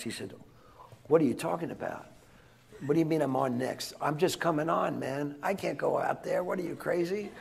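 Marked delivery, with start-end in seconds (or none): 1.1-7.3 freaking out. Retold or imitated. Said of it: "This is Sebastian freaking out".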